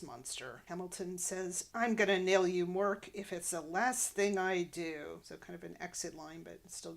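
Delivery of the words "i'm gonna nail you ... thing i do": angry threat. Retold or imitated. Villain's angry exit threat.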